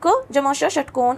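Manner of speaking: each part spelled slowly; slow spelling out. Shown as a demonstration. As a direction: spell the letters out one by one. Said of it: "अ मिलाने पर इन्हें हम पूरा वर्ण". (धीरे-धीरे अक्षर गिनाते हुए)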